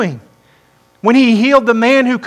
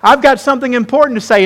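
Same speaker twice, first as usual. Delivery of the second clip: quick, insistent call to listen; rally the room as if clapping for attention; hurried, emphatic announcement of something important; urgent attention call; 3 semitones higher, faster than usual. Acted. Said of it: "Jesus is clapping, saying".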